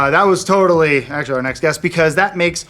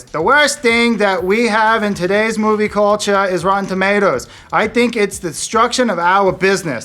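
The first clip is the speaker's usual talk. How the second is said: imitating Brett Ratner; 4 semitones higher than usual. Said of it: "I should do it in his voice".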